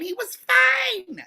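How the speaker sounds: drawn out to convince the upset neighbor; slow drawn-out repeat. Real, not acted. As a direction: stretch each word slowly.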